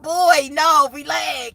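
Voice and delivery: half-playful shout, pitched high; imitating a brother warning someone off, loud and high; mock warning shout.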